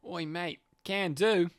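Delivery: Australian, anchored on "oi, mate"; easy Australian accent. Pretend. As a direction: find the Australian accent through an anchor phrase. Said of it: "oh, Keller, Australian".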